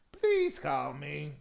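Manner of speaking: Please drawn out slowly, begging; slow pleading. Real, not acted. Host begging the singer to call in, slow plea.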